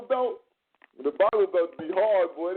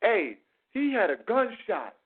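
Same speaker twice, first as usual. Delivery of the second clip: mock stilted phrasing; 3 semitones higher than usual. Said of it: "heard somebody say".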